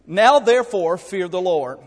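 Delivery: slow, loud reading of the verse; booming scripture. Real, not acted. Preacher to congregation, slow loud scripture read. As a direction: boom it out slowly from the pulpit.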